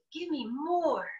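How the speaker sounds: soft whiny buzzard protest; protesting bird voice. Acted. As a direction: whine it like a stubborn bird. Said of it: "yet protested".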